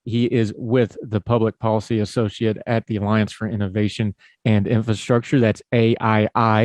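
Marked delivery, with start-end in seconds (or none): 5.4-6.6 "A I I" spelled slowly, each letter separate; said carefully. Shown as a demonstration. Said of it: "I'm gonna say that real carefully".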